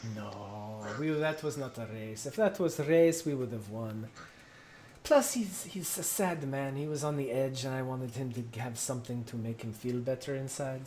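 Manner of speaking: defensive captain. Acted. Sensu defends losing race.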